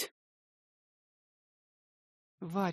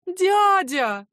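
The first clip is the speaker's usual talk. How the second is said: a high, louder imploring call; pleading; 11 semitones higher, 10 dB louder than usual. Acted. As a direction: beg him to stop. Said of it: "Аня умоляюще".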